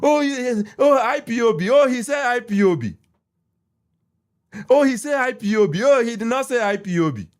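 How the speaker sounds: hammed-up mock of gloating critics; mocking the clowns. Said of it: "my brothers and sisters".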